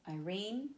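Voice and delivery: Irene leaning on "rene", pitch rising; light "I", stressed rising "rene" in Irene; iambic stress. Shown as a demonstration. Teacher demonstrating an iamb, Irene stressed on "rene". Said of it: "that's an example of iamb".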